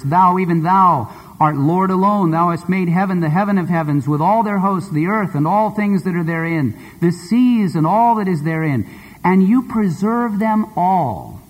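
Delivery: measured, solemn reading of a psalm; solemn Bible reading; scripture reading. Acted. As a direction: read the verse with reverence, slowing at the end. Reads scripture verse aloud.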